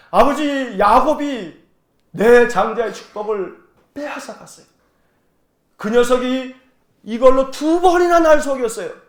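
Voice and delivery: acted aggrieved son, mildly heated. Cheated son complaining to his father, aggrieved. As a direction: protest to father with a touch of outrage. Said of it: "그러면서 막 원통해 하는 거예요".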